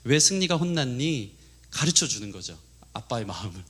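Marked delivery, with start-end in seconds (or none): 0.0-1.3 slow, patient imitation of a mom; gently questioning mother. Mother asking son why dad got angry, slow gentle questioning. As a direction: coax the child slowly, as a mother would. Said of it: "성령님이 된 것처럼 승리한테 이렇게 물어보기".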